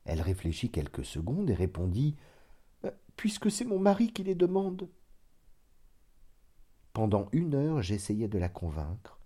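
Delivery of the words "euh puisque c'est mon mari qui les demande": cousin's reply. A narrator's reading. Hypnotised cousin answers.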